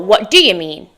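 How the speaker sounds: "What do you mean?" with "do" heard and "you" shortened; half-reduced form. Shown as a demonstration.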